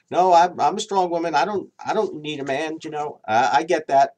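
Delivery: imitating a proud strong woman; mock strong woman. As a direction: play the defiant woman who insists. Mocking the self-styled strong woman.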